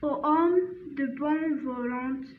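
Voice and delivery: slow French read-aloud, stopping and restarting; halting poem reading. Shown as a demonstration. Teacher reads the poem one last time, slow halting recitation. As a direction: read carefully phrase by phrase, with hesitations.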